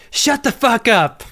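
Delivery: shouting. Retold or imitated. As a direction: lose it completely and scream at everyone. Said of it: "One of the great meltdowns".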